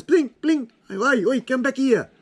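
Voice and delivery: mock panic. Calling after the fleeting year.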